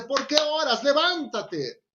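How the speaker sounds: acted stern command. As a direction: order him up, stretching the last word. Voicing God's command to Moses.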